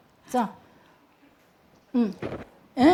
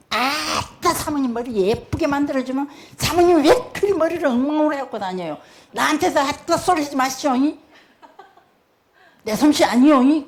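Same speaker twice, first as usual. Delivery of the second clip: Jeolla dialect; 4 semitones higher, 3 dB louder than usual. Retold or imitated. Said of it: "그걸 흉내내다가 나 사투리를 써버렸어요".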